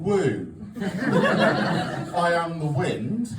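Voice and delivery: drawn-out, very slow spooky wind; mock wind voice. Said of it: "spin around, going".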